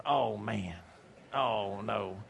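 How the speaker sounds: put-on dismayed boy. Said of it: "I said".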